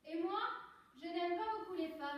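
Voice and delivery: pushed-up projected voice. Shown as a demonstration. Actress doubling her volume for the coach, projected. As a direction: project firmly across the room. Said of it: "tu le fais encore plus fort".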